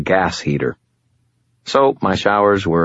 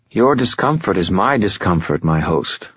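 fallen angel Lashiel; 2 semitones higher than usual. Acted. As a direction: speak as a patient otherworldly being, a little above it all. Lashiel speaks.

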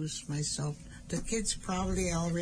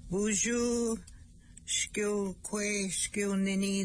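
cheerful greeting; 4 semitones higher, slower than usual. Real, not acted. Greeting the young people.

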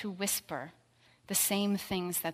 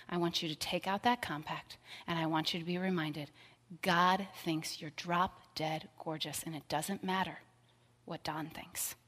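tender counsel. Retold or imitated. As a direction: gently reassure her, fading to a hush. Friend tenderly counsels Jeannie.

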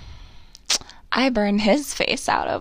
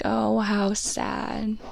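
"Oh, how sad" dragged out very slowly and flat; mopey "Oh, how sad"; much slower than usual. Retold or imitated. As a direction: sigh out "Oh, how sad" at the photos. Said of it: "Now I have to be like".

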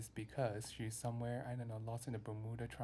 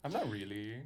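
whispering; 3 semitones lower than usual. Acted. Whispered playful asides.

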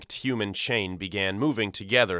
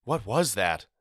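put-on shaken older brother. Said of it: "he asked".

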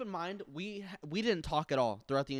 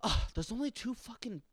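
disrespectful; 4 semitones higher, 3 dB quieter than usual. Retold or imitated. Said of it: "she said it more, like, disrespectfully".

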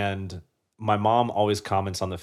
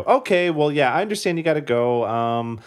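lightly voiced mom, higher and quick; imitated mom lingering on the phone; 5 semitones higher than usual. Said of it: "say bye to my mom".

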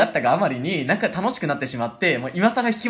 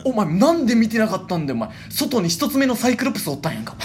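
worked-up mock scolding, raised pitch; 大声で責める真似; 5 semitones higher than usual. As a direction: play an insistent cousin berating him. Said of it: "でっかい声で、". (声を張って責め立てる真似)

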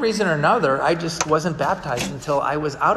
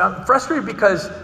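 worked-up complaint, pitch jumping at key questions; venting to a friend in a retold quarrel; retold frustration; 4 semitones higher than usual. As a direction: replay your own exasperation, mildly hammed-up. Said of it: "you've been frustrated lately".

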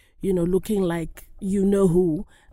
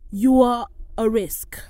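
slow, louder, weighty delivery; deliberate emphasis; 2 semitones higher, 5 dB louder than usual. Retold or imitated. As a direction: quote it slowly and pointedly. Quoting agent's exact damning words.

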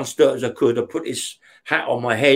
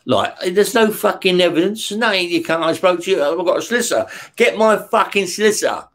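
heated protest; 4 semitones higher than usual. Retold or imitated. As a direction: protest indignantly at police. Arguing with the police.

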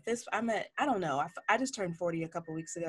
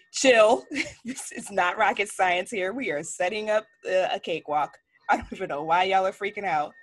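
unbothered "chill"; 4 dB louder than usual. Retold or imitated. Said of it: "and I'm like".

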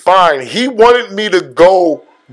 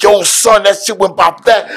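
retold hyped-up reaction, higher pitch; going crazy; 4 semitones higher than usual. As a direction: act out raving to a friend. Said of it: "I was, I was going crazy".

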